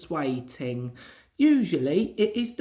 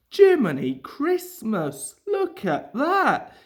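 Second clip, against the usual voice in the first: loud, higher startled cry; exclaiming; 5 semitones higher, 5 dB louder than usual. A narrator's reading. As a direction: fireman spots danger, shouts in surprise. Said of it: "he exclaimed".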